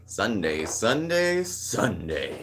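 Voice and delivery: booming arena announcer hype; monster truck announcer voice. Acted. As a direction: roll it out like a monster truck rally promo. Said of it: "That's my monster truck announcer voice".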